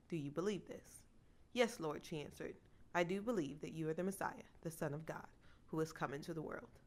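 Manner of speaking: steady Bible reading voice; reading scripture aloud to a congregation. Acted. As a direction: read the passage out clearly and evenly.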